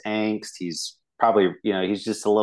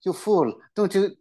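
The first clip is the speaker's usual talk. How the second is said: higher, fast, scolding voice; scornful leader; 10 semitones higher than usual. Retold or imitated. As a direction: berate the kid, quick and mocking. Leader scolding kid, acted quote.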